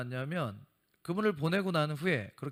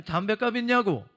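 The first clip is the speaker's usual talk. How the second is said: louder, higher pushy demand for money; retold gruff demand; 5 semitones higher, 5 dB louder than usual. Thug pressing the young pastor for cigarette money, loud demand.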